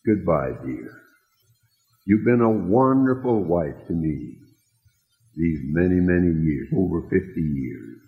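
tender farewell. Retold or imitated. Dying husband farewells his wife.

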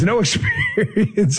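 drawn-out words broken up by laughing; sarcastic laughter. Real, not acted. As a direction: laugh through the sarcastic dismissal. Mocks supposed nobodies while laughing.

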